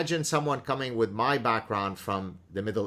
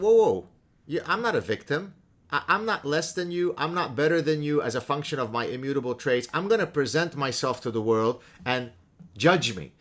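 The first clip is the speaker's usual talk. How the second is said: raised, higher and louder, a proud refusal to be a victim; imitating Sowell's defiant protest; 6 semitones higher, 4 dB louder than usual. To the doubters, voicing a man who refuses victimhood, defiant. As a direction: stand tall and push back, pitched up high. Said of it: "Thomas Sowell is saying".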